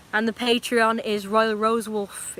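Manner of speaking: slow, even robot voice. Pretend. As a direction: spell it out like a machine. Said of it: "I'm gonna say it all in a robot voice".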